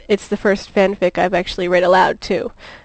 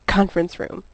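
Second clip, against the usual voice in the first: harsh gritted; 4 dB quieter than usual. Acted. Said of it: "gritting a harsh".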